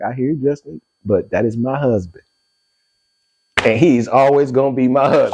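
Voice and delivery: measured, unruffled reply in an everyday pitch; composed mother. Retold or imitated. Mother answering her heated son on the phone, composed. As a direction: hear him out, then state it evenly. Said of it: "She listened to me. She's like".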